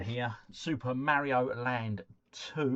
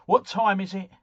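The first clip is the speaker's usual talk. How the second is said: playful call-out; 6 semitones higher, 10 dB louder than usual. Pretend. Playful setup for beer opener joke.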